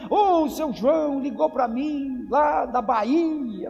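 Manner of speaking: high, slow, overly sweet phone chat. Pretend. Churchgoer on the phone with a distant friend, gushing. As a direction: gush at a caller from afar. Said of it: "Tratar bem os de longe".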